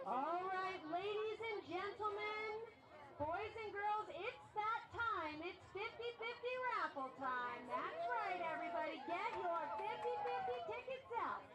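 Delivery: PA announcer hyping the crowd; big welcoming announcer call; booming kids show opener. Acted.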